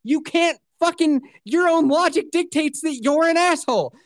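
high, indignant rant; reenacted rage. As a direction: argue it in heated exasperation. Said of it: "I was just reenacting my rage".

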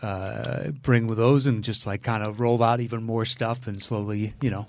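talking through a mouthful; chewing while talking. Real, not acted. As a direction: speak while chewing food. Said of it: "I'm sorry if you hear me eating".

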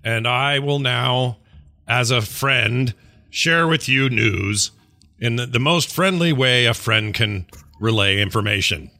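tactful, gentle. Acted.

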